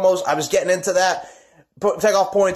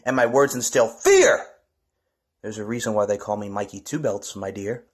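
low menacing promo; 5 semitones lower than usual. Acted. Wrestler threatening his rival with a low, cold boast.

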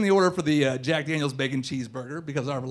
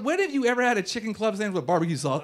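mock disbelief, pitched higher; incredulous retort; 5 semitones higher than usual. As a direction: throw the question back in higher-pitched disbelief. Acted incredulous retort to server.

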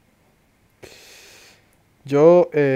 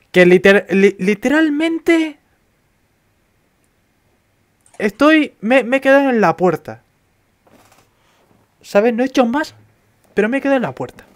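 excited; 10 semitones higher, 6 dB louder than usual. Real, not acted. Exclaims stuck at the door.

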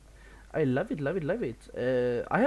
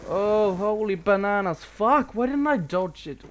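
loud, high exasperated yell; mad outburst; 8 semitones higher, 9 dB louder than usual. Real, not acted. Player mad at failing to dodge, angry outburst. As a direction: burst out, frustrated and high-pitched. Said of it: "That gets me mad".

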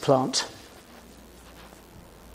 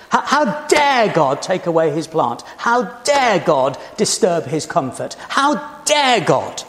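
indignant outrage; 3 semitones higher than usual. Acted. Voicing Jonah's indignation.

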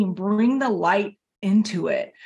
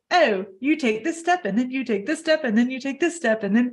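mock step-by-step instructions; 4 semitones higher than usual. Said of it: "there's not like".

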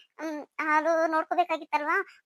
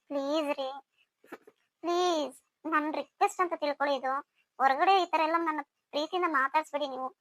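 much softer, pleading please; 5 dB quieter than usual. Acted. Wife quietly begging her husband not to talk to her outside. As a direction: beg him in a hushed voice.

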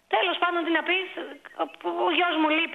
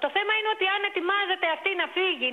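higher, insistent objection to the hosts; indignant protest; 5 semitones higher than usual. Real, not acted. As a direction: push back, hurt and indignant. Caller protests hosts' accusation. (αγανακτισμένη διαμαρτυρία, με ψηλότερη φωνή)

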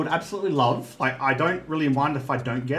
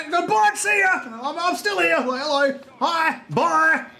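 mock cheery goodbye; 13 semitones higher, slower than usual. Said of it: "And I'm like".

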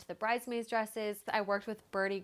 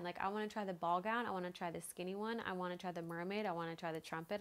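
rattled-off list of demands, softer than usual; bridezilla rant; 5 dB quieter, faster than usual. Retold or imitated. Bride listing every gown she wants to try, mild bridezilla. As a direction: run through each demand in a repetitive sing-through list. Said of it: "definitely my Bridezilla moment".

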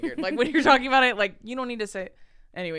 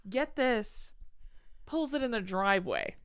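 "Get this" raised, pause, then "driveway" falling; storyteller's inflection; 4 dB quieter than usual. Retold or imitated. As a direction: imitate a storyteller pausing before "Pulls it in the driveway". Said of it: "that inflection".

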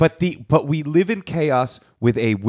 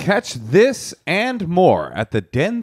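mock promo announcer; 3 semitones higher than usual. Comic plugging the theater dates mid-chat, mock announcer read. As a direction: pitch it like a radio promo. Jokingly plugs a live show.

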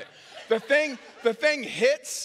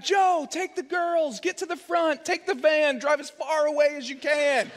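urgent orders; 6 semitones higher than usual. Retold or imitated. Husband ordering his wife to take the girls and flee, urgent and high.

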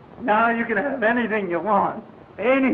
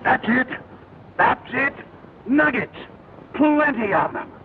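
excited. Acted. Prospector finds gold nuggets.

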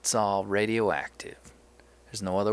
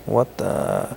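startled, much louder; loud surprised shout; 2 semitones higher, 12 dB louder than usual. Real, not acted. Player startled when the scene freezes, shouting loud.

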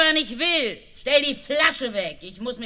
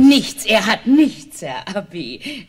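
quick cover-up; 7 dB louder, slower than usual. Acted. Wife covering for husband.

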